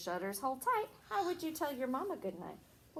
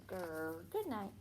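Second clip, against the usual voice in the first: a soft, quiet, kind grr; friendly bear growl; 5 semitones lower, 7 dB quieter, slower than usual. Shown as a demonstration. Teacher shows a child a nice bear saying good night. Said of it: "They're just in a nice way".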